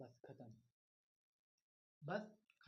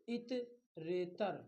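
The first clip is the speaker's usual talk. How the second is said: teacher says the term very slowly; slow spelled-out term; much slower than usual. Shown as a demonstration. Teacher slowly spells out a grammar term for the class. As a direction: draw out each syllable for students. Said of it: "number एक है".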